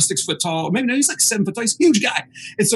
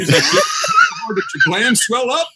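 redneck friend; slower than usual. Retold or imitated. Redneck friend quoted mid-laugh.

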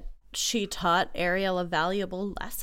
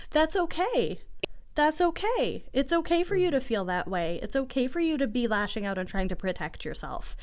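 put-on higher, gentle reassurance to a small child; reassuring a child; 4 semitones higher than usual. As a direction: soothe a toddler in meltdown.

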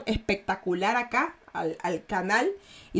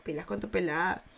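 soft, furtive Guayaquil street accent; 2 semitones lower, 5 dB quieter than usual. Shown as a demonstration. Imitating a Guayaquil man passing on street gossip, furtive Guayaquil accent. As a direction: imitate a shady Guayaquil tough keeping it quiet. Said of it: "ya habla así como que".

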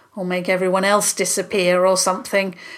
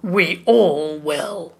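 roaring; 4 dB louder, slower than usual. A narrator's reading. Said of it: "the Monster King roared".

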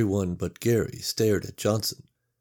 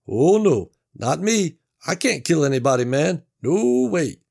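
higher, louder backing-off protest; alarmed refusing Mac; 8 semitones higher, 7 dB louder than usual. Acted. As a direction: push the idea away fast.

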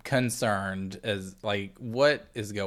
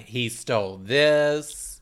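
imitating an accuser; much slower than usual. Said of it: "I just imagine her going around".

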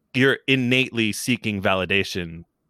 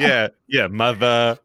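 Brooklyn accent; 3 dB louder, slower than usual. Shown as a demonstration. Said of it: "very thick Brooklyn accent".

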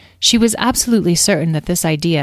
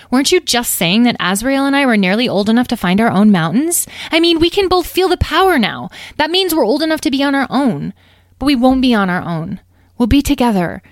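high, loud, earnest youngster; eager young dragon; 9 semitones higher, 7 dB louder than usual. Acted. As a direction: argue excitedly to win Mom over. Young dragon persuades mother.

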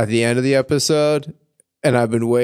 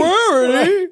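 hick echo; 4 dB louder than usual. Acted. Echoing the hick voice.

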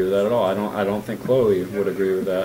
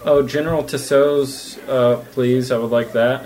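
mock British accent; 4 semitones higher, 3 dB louder than usual. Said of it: "do a British accent or whatever".

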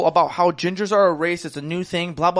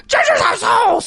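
high, drawn-out mimicked yell; imitation of a viral ranter's scream; mocking taunt; 13 semitones higher, 5 dB louder, slower than usual. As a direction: shout the catchphrase like a jeering bully. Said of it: "looked at me and goes".

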